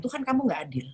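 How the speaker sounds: reproaching God as unfair, upset; upset prayer. Retold or imitated. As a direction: protest to God, stung.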